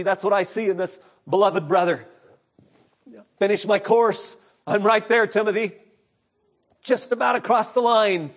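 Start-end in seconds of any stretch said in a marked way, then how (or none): 3.4-8.3 final sprint. Retold or imitated. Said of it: "Paul was in the final sprint".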